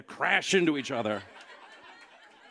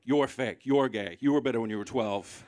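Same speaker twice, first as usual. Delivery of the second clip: snappy comeback; 2 semitones lower, 4 dB louder than usual. Shown as a demonstration. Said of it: "shut it down quickly".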